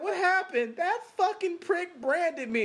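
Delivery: high, mock wounded voice; imitating a woman. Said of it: "She was like".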